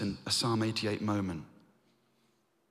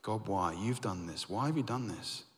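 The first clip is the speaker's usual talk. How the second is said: anguished plea; 7 dB quieter than usual. Acted. Heman's lament voiced.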